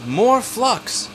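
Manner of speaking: emphatic. Retold or imitated. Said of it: "Teresa says".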